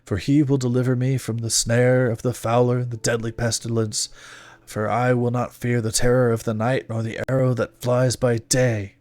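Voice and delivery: firm, fervent battle prayer; fervent scripture recital. A narrator's reading. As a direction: declaim scripture with resolve. Fiery recital of Bible verse.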